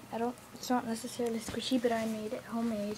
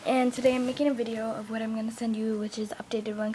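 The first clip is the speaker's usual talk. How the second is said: whispering; 4 dB louder than usual. Real, not acted. Whispering to camera.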